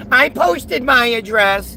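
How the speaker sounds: slow, mocking echo of a claim; mocking imitation. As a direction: parrot the commenter derisively. Mimics the commenter's claim mockingly.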